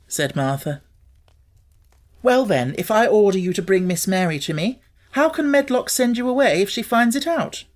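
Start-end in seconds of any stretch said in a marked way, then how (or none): 2.2-7.6 put-on high, imperious boy demanding an answer; a sickly boy demanding obedience from his maid. A narrator's reading. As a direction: press her like a spoiled young master. Colin ordering Martha about.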